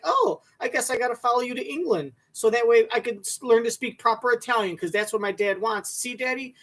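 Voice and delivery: lightly put-on daughter voice, mock-earnest; mocking daughter impression. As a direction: play up the daughter's voice a little to ridicule her. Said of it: "She was like".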